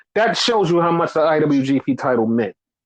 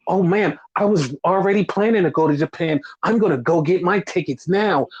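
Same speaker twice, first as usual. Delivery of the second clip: mock excitement; 3 semitones higher than usual. Sarcastic fake joy over AEW show.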